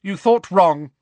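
loud, high retort; indignant dismissal; angry rebuff. Acted. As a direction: cut her down curtly. Fuming professor rebuffs Umbridge.

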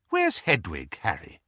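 coaxing. Acted. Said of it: "she said coaxingly".

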